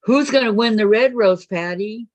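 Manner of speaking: game-show host. Acted. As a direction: announce it like a TV host. Teasing game-show style question.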